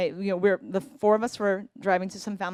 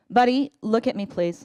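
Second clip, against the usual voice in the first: coaxing plea; 5 dB louder than usual. Retold or imitated. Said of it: "I turn around".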